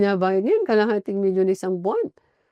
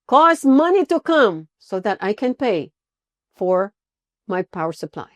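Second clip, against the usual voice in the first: commanding angels; 3 dB louder than usual. Shown as a demonstration. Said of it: "i-command yung angels".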